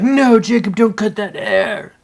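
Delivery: lightly put-on pleading viewer; mock viewer plea. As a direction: viewer begging him not to cut, mock plea. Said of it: "I know you're like".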